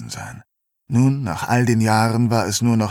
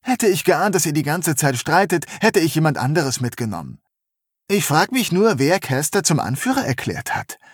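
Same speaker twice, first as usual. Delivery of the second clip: höhere, genervte Frauenstimme; genervte junge Frau; 5 semitones higher than usual. Acted. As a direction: tadelnd wie eine große Schwester. Bonnie tadelt beide. (genervte junge Frau)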